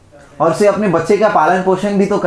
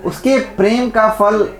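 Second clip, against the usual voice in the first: slow, drawn-out "उसके प्रेम का फल", left hanging; mildly reluctant, unfinished "उसके प्रेम का फल"; slightly hesitant; 3 semitones higher, slower than usual. Retold or imitated. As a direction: hesitate over "उसके प्रेम का फल", stretching it slowly. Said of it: "वो ज़रा हिचकिचाई भी".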